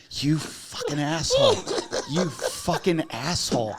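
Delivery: imitating an outraged friend, dragged out; mock furious curse. Jerry furious at the pranksters.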